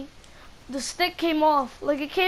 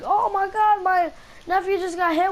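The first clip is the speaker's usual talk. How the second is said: higher-pitched imitation of alarmed aunt; mild retold panic; 4 semitones higher than usual. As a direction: act out a touch of alarm, calling neighbors for help. Aunt running to neighbours for help.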